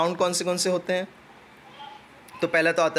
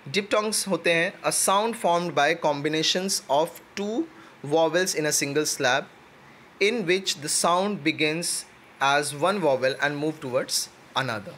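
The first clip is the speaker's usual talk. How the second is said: definition read out word by word, slowly; measured, slow textbook reading; slow dictation; much slower than usual. Acted.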